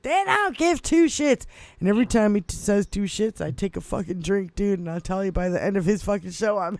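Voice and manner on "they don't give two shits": mock host catchphrase. Comedian mimicking the radio host's catchphrase, high and punchy. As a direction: quote him like you're doing his bit. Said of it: "And he, he's like".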